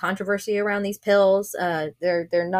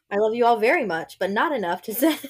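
reading through stifled giggles; 2 semitones higher than usual. Real, not acted. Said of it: "I'm trying not to laugh".

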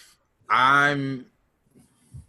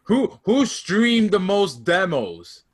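mocking high voice; 9 semitones higher, 6 dB louder, much slower than usual. Mocking comeback.

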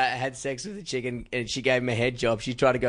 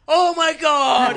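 much higher, louder, slow swooning gasp; swooning woman; 13 semitones higher, 8 dB louder, much slower than usual. Retold or imitated. Mocking the woman won over by Sebastian, high swoon. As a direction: gush like a smitten woman, drawn out. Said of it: "And the chick's like".

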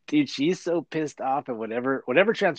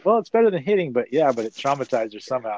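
counselor; 3 dB louder than usual. Retold or imitated. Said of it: "the counselor's like".

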